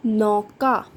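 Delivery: नौका read straight as one word, without spelling out the matra; just say नौका in one go, no letter-by-letter; read whole word. Shown as a demonstration. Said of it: "बिना मात्रा के ही शब्द पढ़ेंगे". (नौका सीधे एक शब्द में पढ़ें)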